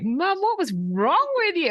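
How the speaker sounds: put-on kids asking. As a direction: ask like a puzzled child. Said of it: "they were like".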